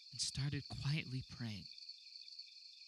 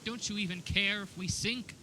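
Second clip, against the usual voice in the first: retold scream; 8 semitones higher, 8 dB louder than usual. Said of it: "I remember screaming at him".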